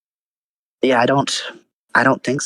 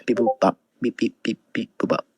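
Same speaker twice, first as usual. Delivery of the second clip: beeping like a robot; mock robot noises; 2 semitones higher than usual. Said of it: "You sound like a robot".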